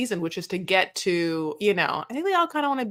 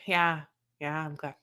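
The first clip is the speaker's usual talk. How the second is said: mock dismissive Jessica; 5 semitones lower than usual. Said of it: "She's like".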